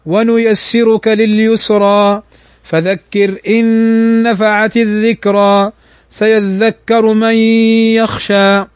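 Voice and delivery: slow chanted tajweed recitation; measured Quranic chant. Shown as a demonstration. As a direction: recite it slowly with tajweed rules.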